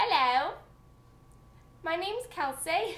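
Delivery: attempted British accent. Practicing an accent for british listeners, doing an attempted british accent. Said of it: "That was Irish, I think".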